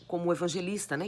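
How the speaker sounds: usual speaking voice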